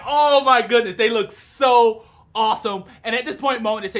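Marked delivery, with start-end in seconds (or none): 0.0-2.9 gushing awe. Retold or imitated. Viewer admiring the guards' new suits, gushing. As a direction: marvel at them, drawing it out. Fan gushes over new uniforms.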